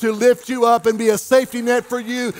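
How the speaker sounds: driving sermon that builds to a held-out climax; impassioned preaching. Real, not acted. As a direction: preach it with mounting force. Preaches at rising force.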